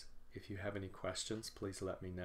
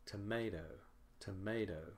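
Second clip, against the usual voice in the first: "tomato" falling to a short final toh; unstressed last syllable. Shown as a demonstration. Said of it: "The last syllable is shorter".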